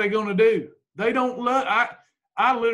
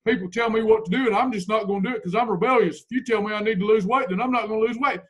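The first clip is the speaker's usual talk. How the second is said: mock rebellious excuse; faster than usual. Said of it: "don't be talking like that".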